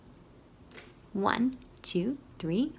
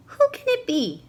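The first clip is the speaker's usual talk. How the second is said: calling out; 9 semitones higher, 4 dB louder than usual. A narrator's reading. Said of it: "said Owl".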